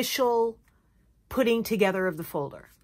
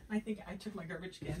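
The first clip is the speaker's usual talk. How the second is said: laughing; 2 semitones lower, 17 dB quieter, much faster than usual. Real, not acted. Laughs at finding own garbage can.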